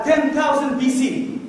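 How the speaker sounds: very slow trailer voice; slow dramatic title. Shown as a demonstration. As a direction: stretch the title like a movie trailer. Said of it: "قال".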